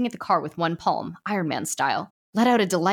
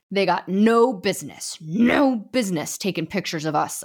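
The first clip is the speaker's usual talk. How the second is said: growling lumberjack; 4 dB louder than usual. Acted. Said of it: "a lumberjack growled".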